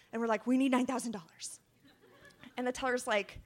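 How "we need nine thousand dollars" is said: panting, laughing through it; breathless from running; out of breath. Retold or imitated.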